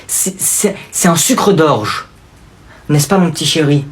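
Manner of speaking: slow, syrupy fake praise; praising the little cousin, slow mock sweetness. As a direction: drag it out sarcastically.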